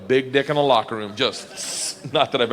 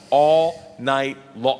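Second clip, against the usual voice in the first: drawn out; much slower than usual. Shown as a demonstration.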